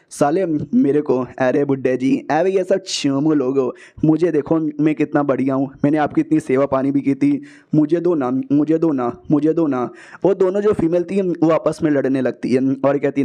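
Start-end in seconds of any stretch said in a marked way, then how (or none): 1.4-9.9 lightly voiced flatterer nagging for a gift; wheedling plea. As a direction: beg the old man sweetly for the power. Begs the old man for it.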